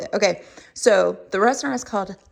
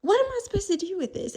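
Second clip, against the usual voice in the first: higher, faster baffled repeat; a rising, quicker what am I supposed to do; mock baffled diner; 10 semitones higher, 3 dB quieter, much faster than usual. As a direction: throw it again, more incredulous. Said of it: "you're like".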